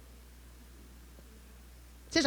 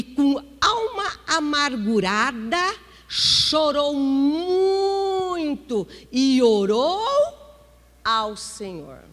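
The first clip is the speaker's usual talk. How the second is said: weeping prayer; 3 semitones higher, 7 dB louder, much slower than usual. Acted. Preacher acts Ana weeping in prayer.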